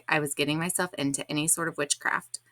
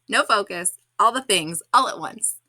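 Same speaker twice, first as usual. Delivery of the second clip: scattered; 4 semitones higher, 8 dB louder than usual. Retold or imitated. Describing scattered, frantic state.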